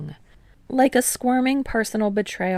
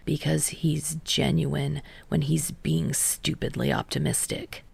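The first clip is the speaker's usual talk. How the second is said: gritted out; 4 semitones lower, 4 dB quieter than usual. Acted. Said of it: "Kei grits out".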